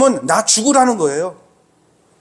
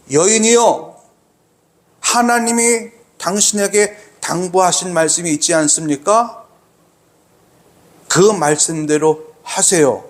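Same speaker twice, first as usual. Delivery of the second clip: deliberate, lowered delivery of a prophet's instruction; voiced prophet; 3 semitones lower than usual. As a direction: voice the prophet, drawing out the words with long pauses. Voicing Elijah's request to widow.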